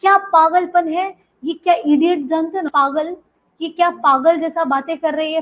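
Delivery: loud, scolding outburst; angry old painter yelling; angry shout. Acted. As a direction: yell it at the girl's foolishness. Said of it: "वो चिल्ला के बोलता है".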